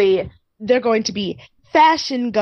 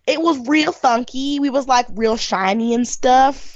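put-on Southern accent; 4 semitones higher, slower than usual. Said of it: "she was like".

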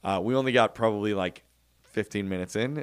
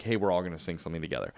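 quick casual imitation; 4 semitones lower, 3 dB quieter, much faster than usual. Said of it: "as opposed to just like".

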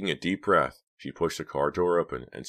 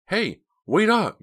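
very high, loud, drawn-out stage whisper; loud whisper call; 9 dB louder, slower than usual. A narrator's reading. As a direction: call after them urgently, slow and high. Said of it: "called in a loud whisper".

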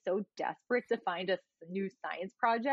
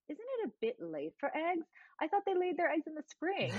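imitating Sheffield; 9 semitones higher than usual. Sheffield quoted.

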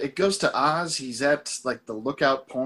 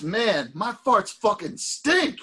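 slow dude voice; 9 semitones higher, much slower than usual. Retold or imitated. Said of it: "one guy says".

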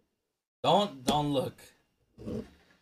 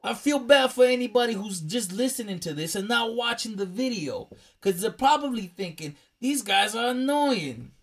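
mock mobster accent, pitched up; Italian-American accent; 3 semitones higher than usual. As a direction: keep up the put-on mobster accent. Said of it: "That's why we're doing accents".

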